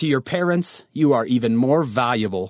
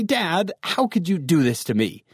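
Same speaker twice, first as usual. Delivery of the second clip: mildly frustrated, higher-pitched complaint; frustrated teen; 4 semitones higher than usual. Acted. Teen complains to dad about the lent car, mildly frustrated. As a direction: protest to Dad with a touch of hurt. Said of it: "kind of get frustrated with your dad".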